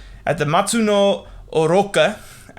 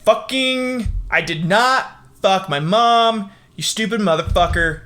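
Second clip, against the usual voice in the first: mock angry retort; 5 semitones higher, 3 dB louder than usual. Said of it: "he was like".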